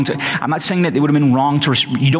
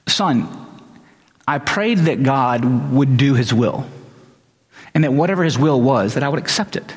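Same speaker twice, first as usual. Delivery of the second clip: very calm. Retold or imitated. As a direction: answer your son gently and unhurriedly. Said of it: "my dad just very calmly".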